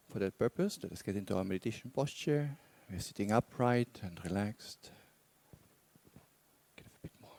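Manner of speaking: measured meditation guidance with long pauses; guided meditation. Real, not acted. Teacher guiding meditators to relax and explore intentions, guided meditation. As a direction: guide them unhurriedly, leaving long silences between phrases.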